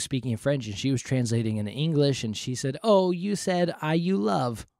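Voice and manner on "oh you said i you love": wife's voice. Acted. Wife translating, acted quote.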